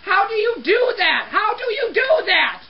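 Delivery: high, exasperated questioning; incredulous demand. Acted. Cleaner baffled by the mess on top, incredulous demand.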